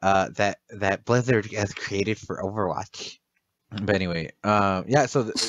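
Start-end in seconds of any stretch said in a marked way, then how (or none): 0.0-3.2 nasal-free smug correcting tone; know-it-all parody. Retold or imitated. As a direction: play the pedantic kid from chat. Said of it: "the kid from Twitch is gonna be like".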